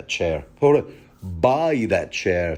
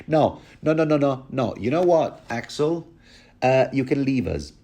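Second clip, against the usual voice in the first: higher, lightly voiced king regaining his cool; regal dismissal; 5 semitones higher than usual. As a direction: dismiss the guard calmly, a hint of a king. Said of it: "and then he goes".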